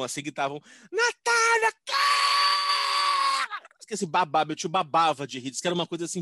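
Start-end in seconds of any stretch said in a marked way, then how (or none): 0.9-3.7 high, loud hooting yell of the name; laughing shout. Retold or imitated. Relatives at a cemetery snack bar yelling through their laughter.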